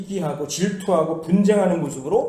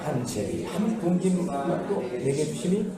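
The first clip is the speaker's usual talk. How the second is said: congregational reading; 4 semitones lower, 5 dB quieter, slower than usual. Real, not acted. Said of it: "같이 한번 읽어봅니다".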